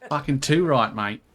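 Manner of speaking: lightly put-on Australian accent, playing up the Aussie slang. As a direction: ham it up like a larrikin mate, loosely. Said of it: "I should probably do that in the Australian accent".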